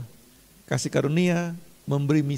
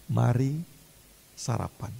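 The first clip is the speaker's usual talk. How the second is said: gentle invitation; 2 semitones lower, slower than usual. Retold or imitated. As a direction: hush it like a kind host. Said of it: "Ngomongnya gitu".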